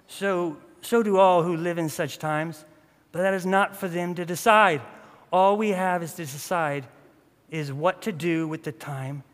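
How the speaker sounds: measured quote in amateur British; poor British accent. Acted. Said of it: "my British accent is poor".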